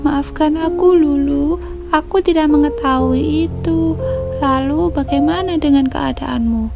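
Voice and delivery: high-pitched apologetic chick; Piko. Acted. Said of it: "Piko melihat Lulu dengan kaget". (suara tinggi anak ayam meminta maaf)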